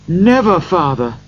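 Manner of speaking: put-on high eager cry of children. A narrator's reading. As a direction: call out together, eager. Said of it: "they all cried".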